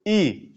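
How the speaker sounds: ई said as a short vowel; short E sound. Shown as a demonstration. Teacher showing students the short ई sound. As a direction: keep ई short, as छोटी ई. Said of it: "छोटी ई".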